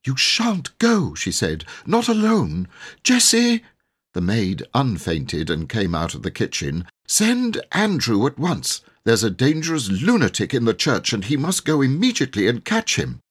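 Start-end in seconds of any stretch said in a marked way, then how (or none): 0.1-3.6 very high, shrill panicked cry; cling to him and cry out for the maid; frightened wife. Acted. Vicar's wife in panic calling Jessie. 7.1-13.2 high, hurried alarm; panicked order. Acted. Frightened wife sending the maid for Andrew.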